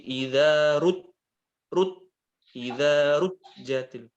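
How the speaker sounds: Idza ruj- said slowly with a rising thin ruj; wrong ruj. Shown as a demonstration. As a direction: stretch ruj up high and thin. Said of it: "Bukan begini".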